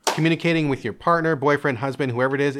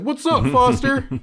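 chummy dad; 12 semitones higher, 4 dB louder than usual. Retold or imitated. Dad greeting nervously.

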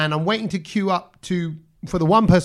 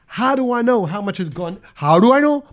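imitated Desi accent, building up; 4 semitones higher than usual. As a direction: play the customer getting more and more worked up in an Indian accent. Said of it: "In the accent".

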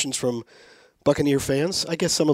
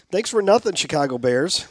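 raised, pointed mock thanks; mock complaint; 5 semitones higher, 4 dB louder than usual. Fan addressing the Chicago Bears, mock complaint. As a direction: call out a mock grievance, higher at the start.

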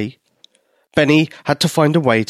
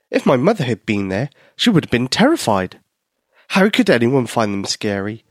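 ordinary delivery, nothing marked

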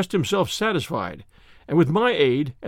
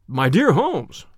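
mild surprised outburst; a touch of astonished protest; exclaiming; 3 dB louder, slower than usual. Acted. Narrator exclaiming at his friend, mild surprise. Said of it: "I ejaculated".

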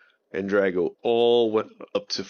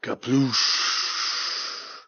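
splash sound; 4 semitones higher than usual. A narrator's reading. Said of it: "they heard".

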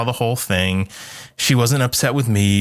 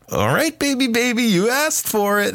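hammed-up high mock menace; mock villain warning; 13 semitones higher than usual. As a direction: play the doll's doom up big. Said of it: "I'm like".

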